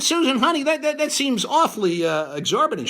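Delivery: retold plea. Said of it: "I asked her, I said".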